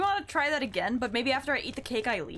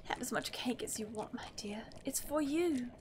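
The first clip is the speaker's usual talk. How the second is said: 1 creepy mother; 7 dB quieter than usual. Acted.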